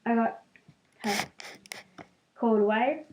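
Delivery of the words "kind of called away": dropped to a whisper; quick whispered aside; hushed aside. Real, not acted.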